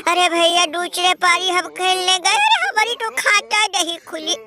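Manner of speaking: hammed-up sobbing complaint, dragging the words; mock wailing lament. Losing team fan wails to his brother, hammed-up sobbing. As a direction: wail like a beaten team begging for pity.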